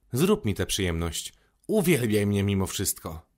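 a hint of self-admiration, then pleading; vain man. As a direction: build up the superlatives, then ease into a request. Narrator voices the vain man.

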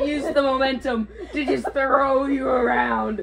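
shouting through laughter; loud and laughing mid-tussle. Real, not acted. Laughing while being thrown.

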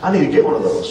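high-pitched burst of excitement on cool; recalling being impressed, lightly; mild amazed thought; excited thought. Retold or imitated. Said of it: "and I thought".

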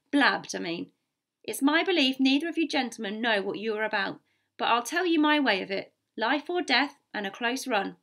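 firm, emphatic captain's warning; lightly voiced stern captain; blunt sea captain. Captain warns both gentlemen of the danger, blunt.

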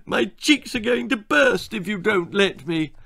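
high, bratty whine; tantrum threat. Acted. Daughter threatening her parents, high bratty whine. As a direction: sulk and threaten. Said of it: "temper tantrum".

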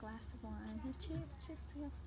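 very soft British accent; hushed, put-on British. Shown as a demonstration. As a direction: murmur a British toast. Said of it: "British accent".

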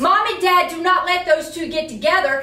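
heated, insistent scolding; worked up. Acted. Boss scolding teacher over missed attendance, worked up. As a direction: hammer the facts home in anger. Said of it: "like, down thirty notches".

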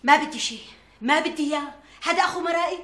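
high-pitched stubborn protest; cross and unbending; indignant refusal. Acted. Mother keeps refusing the suitor.

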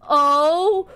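high, loud, gasping shock; playfully dramatic astonishment at a game reveal; shocked discovery. Real, not acted. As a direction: gasp it out, drawing out the big reaction. Shocked discovery of zodiac signs.

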